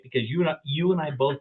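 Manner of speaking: ordinary talk, nothing marked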